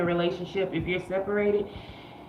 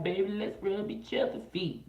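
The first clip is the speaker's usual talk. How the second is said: laughing invite; 7 dB quieter than usual. Retold or imitated. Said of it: "I'll be like".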